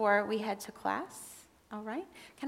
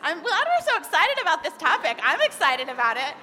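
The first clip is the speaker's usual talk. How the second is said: laughing through the words, brighter and louder; 6 semitones higher, 8 dB louder than usual. Real, not acted. Kids shouting over her, she laughs.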